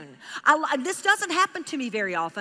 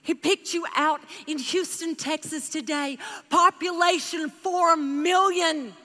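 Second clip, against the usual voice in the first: solemn blessing; 3 semitones higher, slower than usual. Retold or imitated. Preacher telling the stranger Jesus sees her need, slow and tender. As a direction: speak it tenderly and slowly.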